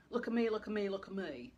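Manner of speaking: Australian mum demanding attention, loud and high; Australian mum shouting for her grown daughter's attention; Australian accent. Retold or imitated. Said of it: "Hope that I didn't do the Australian accent too much of a disservice".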